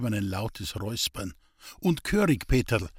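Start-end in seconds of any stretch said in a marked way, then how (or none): 1.8-2.9 lightly raised, teasing priest voice; kindly priest teasing. Acted. Priest teasing Hans-Peter about his manners, mild raised voice. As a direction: tease him gently, half a smile.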